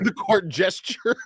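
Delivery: teasing, drawn-out southern pronunciation; mock southern accent. Friend teasing how he says the title, mock southern drawl. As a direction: imitate a friend's southern accent slowly, laughing. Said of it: "don't go talk about my southern dialect".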